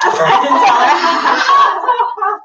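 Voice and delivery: slow, laughing through words. Real, not acted. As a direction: giggle it out. Confessing with a laugh.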